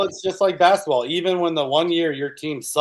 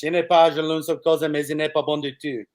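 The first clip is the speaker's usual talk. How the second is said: French. Pretend. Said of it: "the French".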